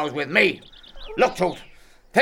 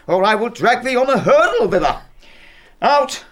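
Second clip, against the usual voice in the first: loud, furious scolding, pitch raised; angry shouting; 4 semitones higher, 4 dB louder than usual. Acted. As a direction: bellow the insults at her. Father raging at defiant daughter.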